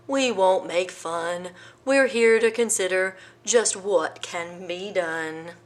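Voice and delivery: slow, lightly voiced elephant; kindly elephant. Elephant gently coaxing the hiding lion, slow. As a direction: reassure him slowly.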